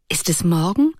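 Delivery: a mildly wondering question on waking; lightly puzzled. Acted. Ruth, just awake, asks Erik with mild wonder. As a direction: ask it half-asleep and a little puzzled. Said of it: "fragte sie verwundert".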